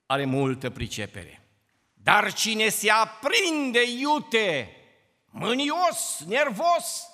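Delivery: slow, dramatic scripture reading; preaching scripture. Acted. Preacher warning the congregation, slow and dramatic. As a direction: stretch and punch the warning.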